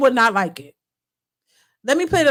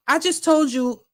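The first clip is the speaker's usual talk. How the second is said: retold grieving boyfriend; slower than usual. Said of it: "he was like".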